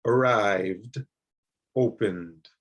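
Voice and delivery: Arrived and opened with an ending between D and T. Shown as a demonstration. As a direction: end opened on a half T, half D. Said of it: "not quite a D and not quite a T".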